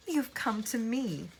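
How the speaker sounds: put-on slow, high, eerie old woman; slow eerie gloat. A narrator's reading. Woman gloats to trapped Elizabeth, slow and eerie. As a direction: savour each word like a witch.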